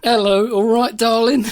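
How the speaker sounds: cheeky builder's catcall to a passing lady; mock catcall. Friend mimics the catcall to the lollipop lady, cheeky and leering. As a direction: lay on the wolf-whistle charm. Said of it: "Lollipop lady".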